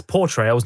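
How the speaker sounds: "portrayals" with a clear "por" at the start; careful correction. Shown as a demonstration. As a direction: say "portrayals" distinctly, not like "betrayals". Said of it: "not betrayals, as it sounded like I just said".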